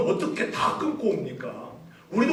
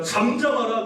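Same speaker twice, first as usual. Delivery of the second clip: rebuking disciple; 6 semitones higher than usual. Acted. Disciples rebuke the blind beggar, sharp and higher. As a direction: silence him with a sharp order.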